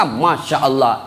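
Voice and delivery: slow, drawn-out sigh of delight; blissful heaven dweller. Acted. Heaven's resident to hell's, slow and blissful. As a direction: savour the words like pure bliss.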